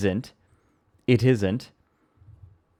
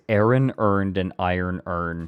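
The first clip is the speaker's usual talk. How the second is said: Baltimore accent. Shown as a demonstration. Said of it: "it's a Baltimore accent saying the phrase".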